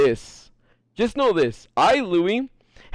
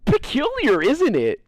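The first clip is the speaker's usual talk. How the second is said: mock word-avoiding imitation; slower than usual. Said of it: "She's gonna be like".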